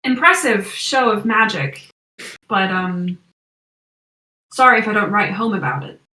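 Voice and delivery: dismissive American villain, lightly voiced; American accent. Old colleague mocks the magic, light American accent. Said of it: "it's American accent".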